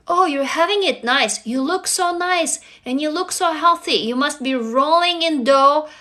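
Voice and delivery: put-on gushing, slowing at the end; mock admiring relatives. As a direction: imitate relatives fawning pointedly. Relatives' envious remark, acted.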